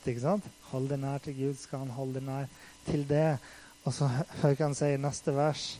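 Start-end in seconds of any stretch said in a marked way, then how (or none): 0.7-3.4 much softer, tender and hushed; soft, gentle reassurance; cozy, soft reading. Shown as a demonstration. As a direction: read it like a cozy comfort. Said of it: "Er ikke det koselig? Det er litt sånn godt".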